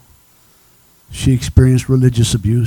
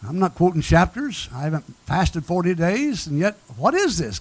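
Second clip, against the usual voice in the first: higher, softer retold plea to God; bewildered appeal; 5 semitones higher, 4 dB quieter than usual. Preacher retelling his question to God from the floor, bewildered appeal. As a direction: lightly voice a baffled question heavenward. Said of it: "I looked up and I said".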